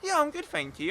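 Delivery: high-pitched imitation of a pleasant answer; friendly reply. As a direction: play the girl who answers nicely. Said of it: "I like girls who go".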